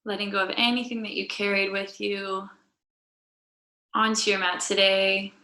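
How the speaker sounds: calm, measured guiding voice with long pauses; guided yoga meditation. Real, not acted. Yoga teacher settling the class onto their mats, calm guided meditation. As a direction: lead them gently into noticing the breath.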